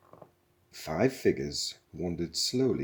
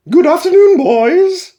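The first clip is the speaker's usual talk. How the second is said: much higher, much louder, bright motherly call; matriarchal computer; 22 dB louder than usual. A narrator's reading. Ship computer greeting the crew, loud high matriarchal call. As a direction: greet them like a bossy mother. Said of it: "It had a matriarchal twang".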